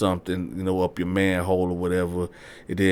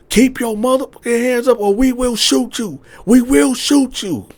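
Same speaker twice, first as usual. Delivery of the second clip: police threat; 7 dB louder than usual. Retold or imitated. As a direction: threaten at gunpoint. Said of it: "They like".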